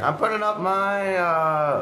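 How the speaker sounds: high, off-character voice; wrong character voice. Acted. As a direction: slip into the wrong voice. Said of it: "oh, that's not his voice".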